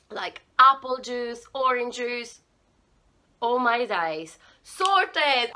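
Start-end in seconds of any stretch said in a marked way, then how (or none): 3.4-5.5 excited. Real, not acted.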